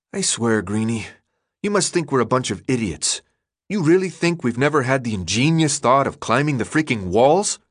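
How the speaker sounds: lightly voiced teen, mocking; a touch of frustrated sarcasm; Minho, sarcastic. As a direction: sneer at the naive question.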